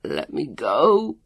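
drawn-out desperate yell, rising. A narrator's reading. Captive Leon demanding release, yelling. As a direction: stretch the last word into a pleading shout. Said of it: "Leon's voice yelled".

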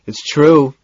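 talking through food; mouth full. A narrator's reading. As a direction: speak round a mouthful. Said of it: "his mouth full".

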